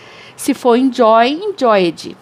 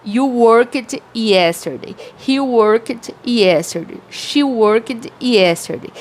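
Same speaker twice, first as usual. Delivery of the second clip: each sentence said slowly and clearly, the word worked stressed; slow model drill; much slower than usual. Shown as a demonstration. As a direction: read it like a teacher modelling for the class. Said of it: "Então, eu falo".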